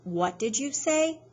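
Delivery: put-on the father turning on the boy, slow and menacing; menacing killer. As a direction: let the question hang, threatening. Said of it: "he says".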